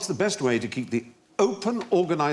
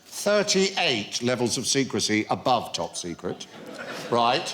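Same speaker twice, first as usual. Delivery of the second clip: conspiracy theorist voice. Acted. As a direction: lightly play a UFO believer sharing secrets. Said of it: "Why are you talking like this?".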